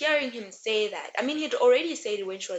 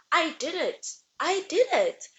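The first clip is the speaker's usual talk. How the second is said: high pleading insistence; insistent; 7 semitones higher than usual. Retold or imitated. Cersei insisting to her doubting family, high and pleading. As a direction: insist over and over, voice climbing.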